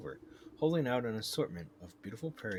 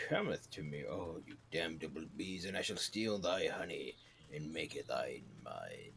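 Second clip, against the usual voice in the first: mock-archaic incantation; 5 semitones lower than usual. Player summons the bees to steal honey, mock-archaic. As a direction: intone like a hammy sorcerer, pitched down.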